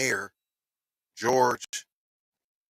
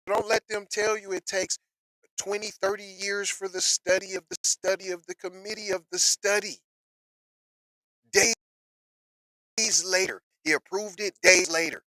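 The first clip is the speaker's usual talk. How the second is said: high emphatic rant; 9 semitones higher than usual. Real, not acted.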